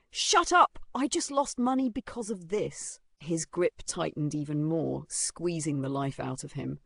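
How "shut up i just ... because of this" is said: snapping angrily. A narrator's reading. Bully who lost money answers girls, snapping angrily. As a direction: snap back hard. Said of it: "he snapped back angrily".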